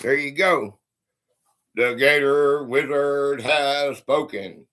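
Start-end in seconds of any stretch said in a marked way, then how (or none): 1.7-4.7 wizard pronouncement. Acted. Wizard proclamation.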